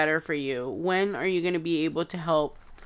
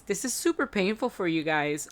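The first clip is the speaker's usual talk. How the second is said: crying. Real, not acted. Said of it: "and tears are running down my face".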